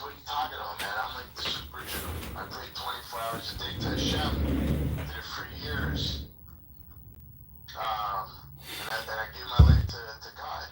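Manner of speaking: super Jew's indignant protest. Retold or imitated. Storyteller voicing the pious man protesting to the heavenly judge, indignant and loud. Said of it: "He goes".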